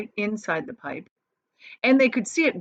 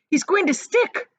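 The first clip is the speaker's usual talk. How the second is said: worried; 12 semitones higher, 5 dB louder than usual. A narrator's reading. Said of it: "said Charlie".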